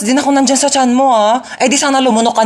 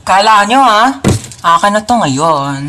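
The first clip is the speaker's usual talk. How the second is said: gloating; slower than usual. Acted. Gloating over the chocolate.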